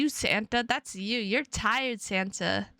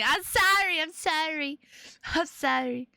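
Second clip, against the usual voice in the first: yawning apology; 6 semitones higher than usual. Real, not acted.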